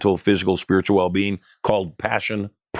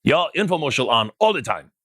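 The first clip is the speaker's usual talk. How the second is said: higher mock Taiwanese accent in broken English; rough Taiwanese accent, pitched up; imitating Taiwanese accent; 5 semitones higher than usual. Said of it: "That's just kind of the accent that he did".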